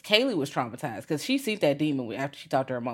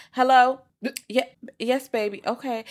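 much higher, a bright loud phone hello; chirpy dispatcher; 8 semitones higher, 5 dB louder than usual. Retold or imitated. Dispatcher picking up the phone, higher and louder. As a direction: answer the call sweetly. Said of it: "the nine one one dispatcher".

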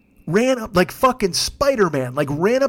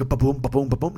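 imitated thumping; 6 semitones lower, 3 dB quieter than usual. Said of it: "like a noise".

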